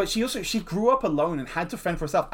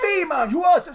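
lightly put-on higher chain-smoker voice; hint of a smoker cartoon creature, pitched up; chain-smoker character voice; 12 semitones higher, 6 dB louder than usual. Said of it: "sounds like he's a chain smoker".

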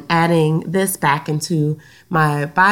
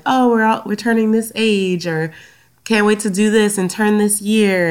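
excited; 4 semitones higher, 3 dB louder than usual. Retold or imitated. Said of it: "texting and excited".

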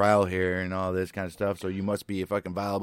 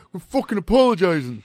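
high, loud exasperated mock yell; mock pissed snap; 11 semitones higher, 7 dB louder than usual. A host imitating Jane, annoyed at Andy, in a high loud snap. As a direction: snap it like she's fed up.

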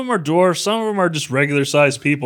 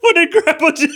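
incredulous; 13 semitones higher, 4 dB louder than usual. Real, not acted. Incredulous question about plot.

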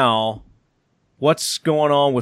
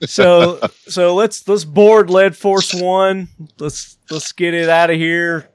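excited; 5 semitones higher, 4 dB louder, slower than usual. Real, not acted. Hyped launch of next segment.

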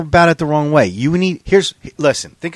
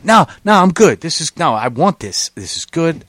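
imitating the groom; 4 semitones higher, 4 dB louder than usual. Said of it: "like he was talking himself off the ledge".

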